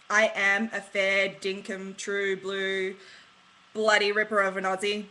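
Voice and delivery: slowed-down, emphatic Aussie accent; broad Australian accent. Real, not acted. Proud expat declaring she's a true Aussie, broad Australian accent. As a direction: lay the Australian accent on thick, slowly. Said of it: "I'll bung on the accent every time I want".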